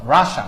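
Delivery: রাশা repeated as ra-sha; English-style রাশা, ra-sha; Russia as two syllables. Shown as a demonstration. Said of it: "উচ্চারণটা রাশা".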